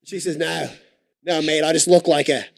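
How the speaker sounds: mock British back-and-forth; put-on British accent. Coach retells Lindsay's reply, mock British accent. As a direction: act out the chat in a hammed-up British accent. Footy correspondent retells the exchange.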